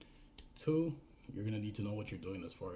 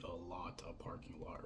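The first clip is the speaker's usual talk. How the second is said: whisper; 2 semitones lower, 6 dB quieter than usual. Shown as a demonstration. Explaining the word lot.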